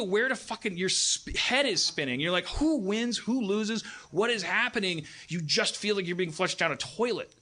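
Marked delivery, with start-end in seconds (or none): 2.5-5.0 high-pitched mock bewilderment; bewildered questioning. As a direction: ask as if your head is spinning, pitched up. Acting out a head-spinning viewer.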